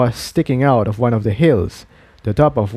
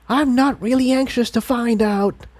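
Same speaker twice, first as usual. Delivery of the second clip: grumbled; 12 semitones higher than usual. A narrator's reading. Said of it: "Tiptoe grumbled".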